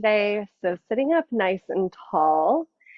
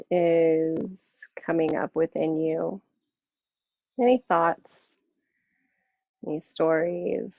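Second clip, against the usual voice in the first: guided meditation. Acted. Yoga teacher settling the class into seated practice, guided meditation. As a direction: ease them inward, unhurried, letting each phrase settle.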